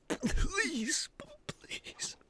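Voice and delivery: whispered, fading plea; breathless whispered begging; terrified whisper. Acted. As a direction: beg under your breath. Begging in terror.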